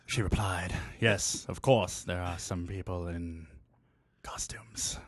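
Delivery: low sultry reading with whispers; sexy voice. Acted. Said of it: "in your sexy voice".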